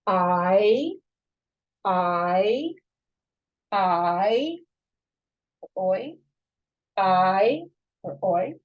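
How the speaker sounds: each vowel sound said alone, clearly, with a pause after it; vowel drill. Shown as a demonstration. Teacher leading the class through Hebrew vowel sounds, said clearly one by one. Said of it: "Let's say this together".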